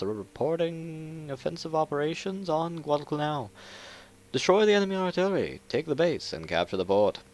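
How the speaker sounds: lightly voiced fifties newsreel announcer; 1950s narrator. Shown as a demonstration. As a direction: read it like a 1950s briefing. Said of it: "I've been practicing my fifties voice".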